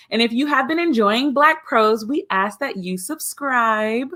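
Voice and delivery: crisp formal cabin announcement; flight attendant voice. Acted. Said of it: "flight attendant voice on".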